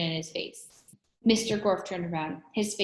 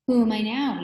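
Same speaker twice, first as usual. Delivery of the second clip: higher, louder mimicked girl's voice; Leslie; 5 semitones higher, 8 dB louder than usual. A narrator's reading. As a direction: taunt in an imitated schoolgirl voice. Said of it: "It was Leslie's voice".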